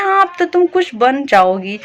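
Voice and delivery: mildly mocking neighbour's remark; retold taunt. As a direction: imitate a doubtful, needling compliment. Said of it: "जिस उस अंदाज से बोला ना". (हल्के ताने के अंदाज़ में)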